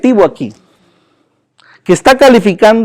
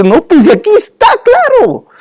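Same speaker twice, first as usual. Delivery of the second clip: voicing the diaspora Jew; 12 semitones higher than usual. Jew outside Israel quoted.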